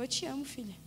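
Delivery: soft, hushed loving aside; terno. Retold or imitated. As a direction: say it gently, well under speaking volume. Spirit's tender words, retold. (voz baixinha e carinhosa)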